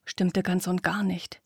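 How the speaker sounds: hushed, tense storytelling whisper; whispered narration. A narrator's reading. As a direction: breathe it like a secret.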